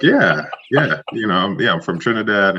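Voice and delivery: amused at the question; young recruit laughing, retold; laughing reply. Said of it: "I was like".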